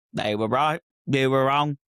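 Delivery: put-on brash Essex accent. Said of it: "Said in an Essex accent".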